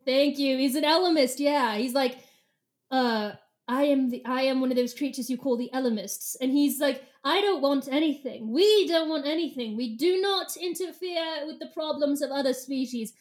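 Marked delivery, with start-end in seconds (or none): 2.9-6.3 measured British self-introduction; lightly snooty English accent. Acted. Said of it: "I like snooty British Ellimist". 7.2-13.1 lofty British declaration; lightly haughty British voice; snooty British accent. Acted. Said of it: "I like snooty British Ellimist".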